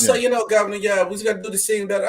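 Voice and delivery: mock London accent. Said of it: "he go right back to his London accent".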